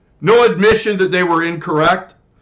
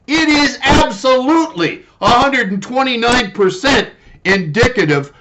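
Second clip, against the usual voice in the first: angry rant; 2 semitones higher than usual. Real, not acted. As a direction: hammer home the outrage. Ranting at the government.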